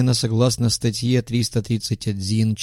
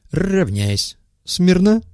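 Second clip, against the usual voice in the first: shouting drill sergeant; 9 semitones higher, much slower than usual. Acted. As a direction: snap the line to attention. Commander calls the formation to attention.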